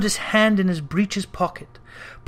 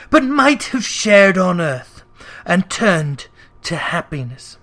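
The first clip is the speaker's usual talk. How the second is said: mournful ghost. Acted. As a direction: lament as a doomed soul. Ghost voice held.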